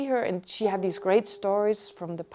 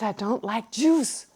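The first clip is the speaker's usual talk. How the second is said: slow, deliberate "I don't like Jews" with a rise on "Jews"; slow quoted grandmother; slower than usual. Retold or imitated. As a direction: lightly voice the old lady, spelling it out slowly. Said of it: "She said".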